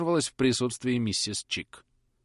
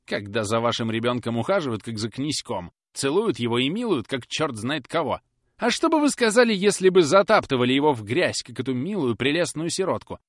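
loud, high, rushing; indignant rant; 5 semitones higher, 7 dB louder than usual. Acted. Susan defending little Florence to Polly, loud and indignant. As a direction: pour out the injustice.

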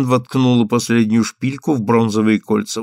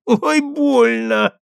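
put-on high, slow whine like a sleepy child; sleepy childish whimper; 12 semitones higher, much slower than usual. Stan whimpers as Ellen shakes his head, sleepy childish whine. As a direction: whimper it like a little boy. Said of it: "захныкал он сонным детским голосом".

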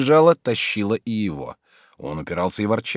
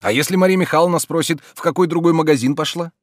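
louder worried questioning; Oblomov, anxious; 9 semitones higher, 7 dB louder than usual. A narrator's reading. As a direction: fret over being caught. Oblomov worrying. (Обломов тревожится)

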